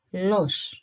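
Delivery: "los" as one separate syllable; syllable demo. Shown as a demonstration. Teacher giving the second syllable, sounded out clearly. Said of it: "the second syllable".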